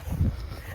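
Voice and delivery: a short airy laugh, out of breath; breathless laugh. Real, not acted. To her viewers mid-walk, a breathless laugh. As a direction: laugh it off while catching your breath. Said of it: "I'm out of breath".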